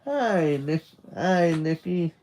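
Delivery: high, light mum voice; mother's greeting. Acted. Mother's voice greeting her son.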